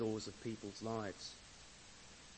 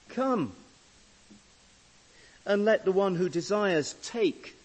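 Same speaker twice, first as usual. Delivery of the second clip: loud, raised declaiming with weighty pauses; scripture proclamation; 5 semitones higher, 10 dB louder than usual. Acted. Preacher reading the Bible's final invitation to the congregation, loud proclamation.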